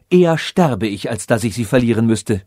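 passionate vow. Acted. Ferenc refuses to flee her.

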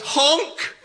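imitated car horn, one honk. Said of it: "the car goes".

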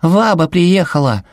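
put-on high, slow child's voice; little boy calling out happily; excited child. A narrator's reading. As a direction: announce grandma's arrival with delight. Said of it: "закричал Сэл".

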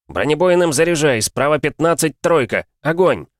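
loud, high urgent orders; shouted fire commands. Acted. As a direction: yell the orders over the cannon. Tank commander calls fire orders.

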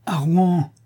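indignant high exclamation; cri indigné. A narrator's reading. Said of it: "cria la chanteuse indignée". (s'écrier, indignée)

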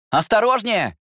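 high, loud call up to the window; shouting a warning. Acted. Brother warning his sister leaning from the window, loud shout. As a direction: yell it up at her so she backs off. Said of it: "крикнул я".

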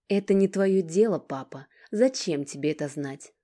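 loud, sharp retort; angry. Acted. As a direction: shut him out angrily. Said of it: "Алина злилась".

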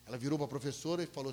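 ordinary talk, nothing marked

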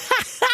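put-on high mischievous boy's cackle; boy's teasing laugh. A narrator's reading. Boy laughs teasing his granny, high cackle. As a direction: cackle at granny to tease her. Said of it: "смеётся он".

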